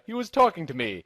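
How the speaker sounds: proud voice. Acted. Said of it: "he said in a great, proud voice".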